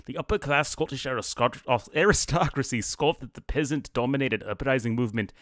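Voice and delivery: hammed-up Scottish accent for a nobleman; a cheesy fake Scottish accent; bad Scottish accent. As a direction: put on a rough Scottish accent as the Scottish lord. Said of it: "really bad Scottish accent".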